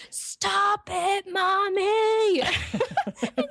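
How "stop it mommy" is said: high, drawn-out mock yell of a small child; imitated toddler scream. Toddler son defying his mother's discipline, imitated scream. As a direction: mimic a toddler screaming in protest, stretched out and pitched way up. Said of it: "screams at me".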